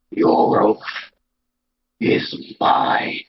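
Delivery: eerie breathy whisper of a hidden being; deep trembling voice. Acted. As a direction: rasp it out low, trembling and ghostly. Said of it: "this deep, trembling voice".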